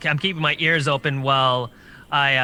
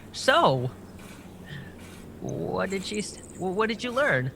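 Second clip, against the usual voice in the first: hushed question; 4 semitones higher, 7 dB quieter than usual. Acted. Character asks Felix, hushed.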